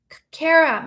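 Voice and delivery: a sharp, stammering call for his sister; urgent call. A narrator's reading. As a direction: shout her name over the noise. Trapped brother calls to sister.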